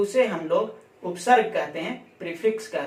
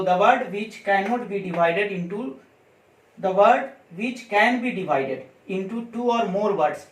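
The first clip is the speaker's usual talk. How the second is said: slow, word-by-word dictation pace; much slower than usual. Shown as a demonstration. Teacher dictating a definition to students, slow and deliberate. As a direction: spell it out slowly so students can write.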